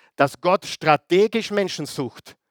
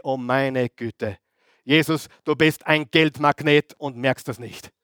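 Judas exasperated; 3 semitones lower than usual. Acted. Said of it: "Der Judas denkt sich".

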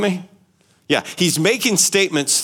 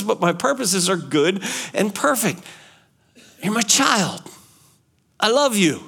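put-on God speaking tenderly to his child; steady, earnest divine reassurance; voicing God; 2 semitones higher than usual. God assures the grumbling believer, lightly voiced.

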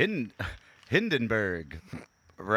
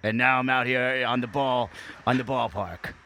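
louder, rough rambling rant; a hint of the crime dog, mildly hammed up; gruff crime dog; 3 dB louder than usual. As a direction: bark it like a washed-up mascot. Voices McGruff the dog.

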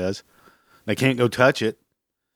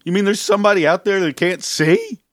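much higher and louder, hammed-up amazement; a mocking gasp of fake discovery; mock astonishment; 9 semitones higher, 4 dB louder than usual. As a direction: play the clueless guy just discovering blindness. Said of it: "was like".

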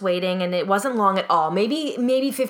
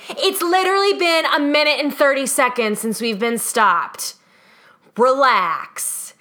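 exasperated scolding; 5 semitones higher, 4 dB louder than usual. Retold or imitated. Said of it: "she's yelling at people".

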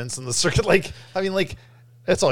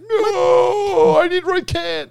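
loud; 4 dB louder, slower than usual. Retold or imitated. His mock protest against the recasting.

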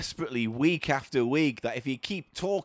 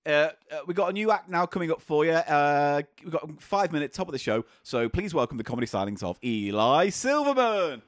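compère intro. Pretend. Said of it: "compère introduction".

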